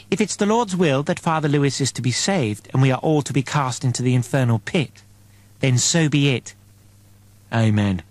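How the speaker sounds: lightly voiced zealot, solemn resignation; a touch of sanctimonious preacher; pious fervent woman. Peck's fervent pious declaration.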